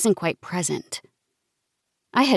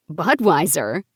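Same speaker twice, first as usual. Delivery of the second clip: questioning; slower than usual. Acted. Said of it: "I asked with a cocked eyebrow".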